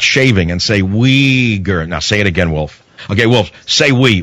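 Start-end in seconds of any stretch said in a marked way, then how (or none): 1.9-2.8 lightly voiced diction teacher coaxing a pupil; mock pronunciation lesson for Wolf Blitzer; coaching Wolf Blitzer. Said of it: "Wolf Blitzer learning how to say Uyghur". 3.1-4.2 mock speech coach. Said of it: "Wolf Blitzer learning how to say Uyghur".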